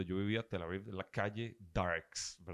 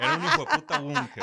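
excited exclamation; 9 dB louder than usual. Real, not acted. Exclaiming about the bunker.

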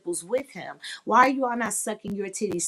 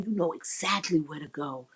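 soft, sultry moan of approval; mock bedroom moan; moaning praise; 3 dB quieter than usual. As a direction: purr it like you're lost in it. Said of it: "if they're doing something I do like".

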